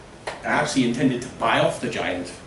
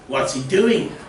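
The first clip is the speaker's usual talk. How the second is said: villager voice; 7 semitones higher, 5 dB louder, slower than usual. Acted. Villagers wonder aloud.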